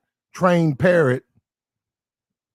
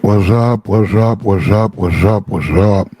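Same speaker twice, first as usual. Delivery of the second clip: booming hype greeting to chat; loud greeting; 7 semitones lower, 11 dB louder, slower than usual. Real, not acted. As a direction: call it out big and loud. Streamer greeting chat at stream start.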